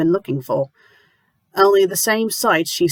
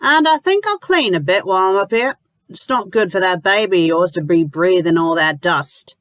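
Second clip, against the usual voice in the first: bossy landlady; 3 semitones higher than usual. Acted. Landlady bustling in, pushy.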